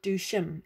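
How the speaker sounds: douchim said with a short vowel; douchim, no fada lengthening; wrong short vowel. Shown as a demonstration. Teacher giving pupils the mistaken form. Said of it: "it's douchium".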